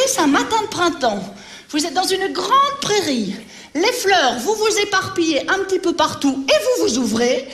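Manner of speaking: lightly sing-song scene setting for little ones; reading to children. Acted. Teacher guiding her pupils through the spring meadow scene, lightly sing-song. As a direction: paint the spring meadow gently for the kids.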